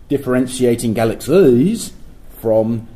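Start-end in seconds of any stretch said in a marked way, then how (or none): 0.9-1.9 "galaxies" with a drawn-out Cockney final vowel; exaggerated Cockney. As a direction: stretch the end of "galaxies" in broad Cockney. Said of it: "with an exaggerated Cockney diphthong".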